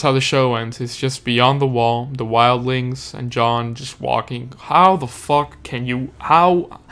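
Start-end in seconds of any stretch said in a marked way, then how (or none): 4.6-6.8 outraged disbelief. Real, not acted. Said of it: "I've never shown this ex-, much expression".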